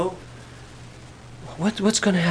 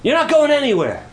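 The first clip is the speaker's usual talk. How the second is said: firm loving insistence; 9 semitones higher, 4 dB louder than usual. Retold or imitated. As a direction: hold him tight and refuse to let him go. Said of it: "she threw her arms around me and she said".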